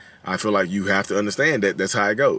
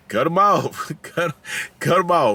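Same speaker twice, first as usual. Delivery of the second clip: a soul singer; 7 semitones higher, slower than usual. Retold or imitated. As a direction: belt it like a jokey soul crooner. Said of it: "What the soul singer?".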